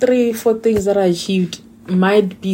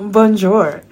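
slow, playful put-on French accent on bonjour; mock French greeting; 5 semitones higher, 7 dB louder than usual. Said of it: "what do they speak in Bonjour".

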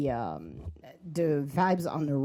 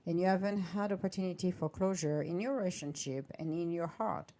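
horoscope reading; 3 dB quieter than usual. Acted. Reads a horoscope aloud.

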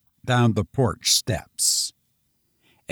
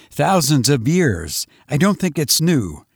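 frantic survivor Lois; 2 semitones higher than usual. Acted. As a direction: rush the story out, still haunted. Lois explains his theory.

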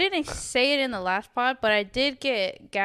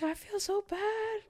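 retold crying; 8 semitones higher, 3 dB quieter than usual. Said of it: "I was crying".

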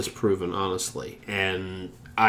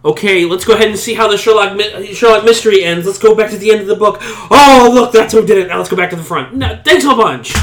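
sarcastic; 8 semitones higher, 9 dB louder than usual. Pretend. Mocks co-host for spoiling story.

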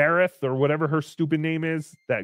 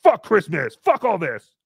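mock angry drunk; 3 dB louder than usual. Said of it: "an angry drunk".

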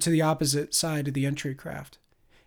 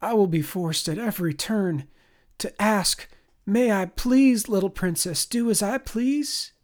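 grovel sarcastically, stretching please; 5 semitones higher than usual. Acted. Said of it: "adopted a groveling tone".

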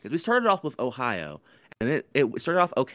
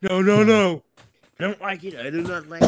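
mock high protest; 8 semitones higher, 7 dB louder than usual.

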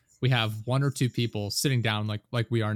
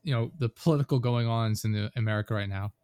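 pushy reporter; 5 dB louder than usual. Pretend. Mock reporter at car crash.

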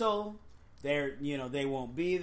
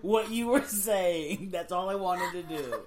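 laughing; 2 semitones higher, 4 dB louder than usual. Real, not acted. Laughing fit, explaining the joke.

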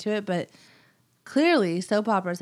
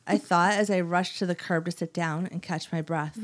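put-on weird British-Italian accent. Scary old lady killer's soap opera monologue, weird British accent. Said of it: "it was like a weird British".

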